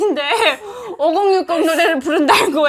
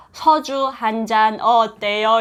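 put-on North Korean accent; 5 semitones lower, much slower than usual. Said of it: "이게 대한민국의 발음이".

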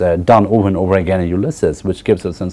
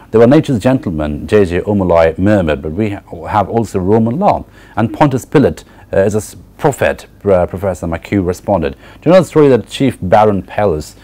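reading the novel aloud, measured and even; story reading. Acted. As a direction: read the passage like a story to the class. Lecturer reads Ulysses aloud.

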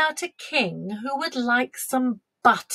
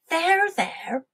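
higher-pitched, gently sympathetic; lightly voiced comforting dairymaid; soothing dairymaid; 7 semitones higher than usual. A narrator's reading. Dairymaid consoles the queen, soothing.

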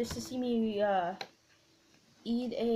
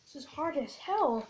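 talking while chewing; strained chewy speech; mouth full of gummy. Real, not acted. Seen 0: bites gummy at -7 to -4, jaw working, strained face during words.

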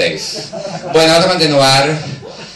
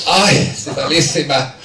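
queja lenta y floja de enferma; malísima, fingido; 4 dB quieter than usual. Retold or imitated. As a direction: imita a una amiga que se encuentra fatal. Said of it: "me la veo malísima". (quejido fingido, arrastrando las palabras)

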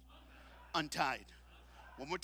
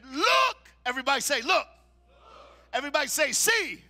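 high, loud shout to the crowd; call and response; 9 semitones higher, 13 dB louder than usual. Acted. Preacher has the congregation repeat words, loud shouts. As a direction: get the whole room shouting back.

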